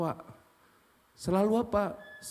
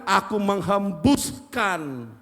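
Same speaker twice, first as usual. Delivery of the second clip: slow, solemn; 6 dB louder, much slower than usual. Acted. God's words quoted slowly.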